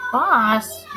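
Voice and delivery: loud, shocked protest; a sharp shocked yell; indignant outcry. Acted. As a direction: call him out sharply. Scandalised outburst at the joke.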